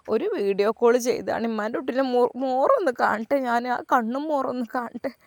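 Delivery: a hint of a tearful mother; old mother's longing. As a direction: ask to see his face, nearly whispering. Mother asks to see son.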